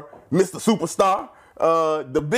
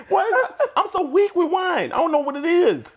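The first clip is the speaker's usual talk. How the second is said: high, laughing, mock helpless; feigned helplessness; 11 semitones higher than usual. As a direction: play it like you can't handle one glass. Laughing that the wine got to him.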